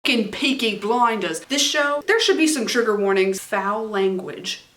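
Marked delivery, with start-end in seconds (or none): 0.1-1.4 put-on British accent. Apologize. Any kind of British accent.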